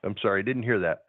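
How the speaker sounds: cutting out on the phone; bad call signal dropping out; breaking up space radio. Real, not acted. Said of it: "you're breaking up now".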